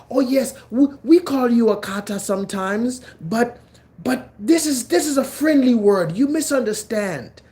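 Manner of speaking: high, put-on voice of a backpedalling guy; mock defensive dude. Quoting the dude who claims kata is a friendly word, mocking. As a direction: play a weaselly guy over-explaining. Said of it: "He literally said that".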